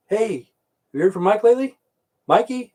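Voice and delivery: radio joke. Retold or imitated. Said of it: "But it would say".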